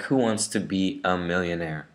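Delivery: "be a" said as "bia", without r; British schwa. Shown as a demonstration. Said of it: "So it sounds like".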